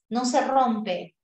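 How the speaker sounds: no se rompe, slow, each word pressed; firm slow no se rompe; slow emphatic. Shown as a demonstration. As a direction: drive home no se rompe slowly. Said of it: "el diptongo no se rompe".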